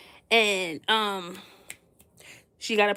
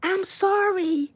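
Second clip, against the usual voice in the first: mock apology; 8 semitones higher than usual. Host apologizing to guest, high whiny apology. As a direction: voice the host pleading sorry.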